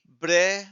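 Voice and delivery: "ब्रे" alone, loud and held; teacher isolating "ब्रे"; sounded-out syllable. Shown as a demonstration. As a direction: punch out ब्रे as one word part. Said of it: "छोटी-छोटी parts में आप pronounce".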